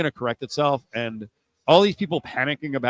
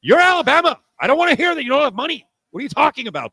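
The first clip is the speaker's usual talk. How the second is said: much higher and louder, fast indignant shout; incredulous rant; 13 semitones higher, 7 dB louder, faster than usual. Real, not acted. Host shouts down Alabama's money complaint, loud. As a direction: blast it like you can't believe it. Host ranting at McCarron's whining.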